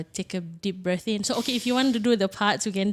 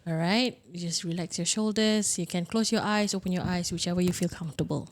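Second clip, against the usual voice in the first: guided meditation. Acted. Leads a breathing exercise.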